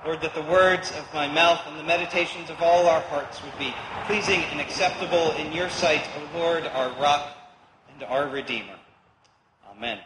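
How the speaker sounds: hushed, reverent prayer voice; opening prayer. Acted. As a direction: pray it gently, trailing down at the end. Opening prayer before sermon.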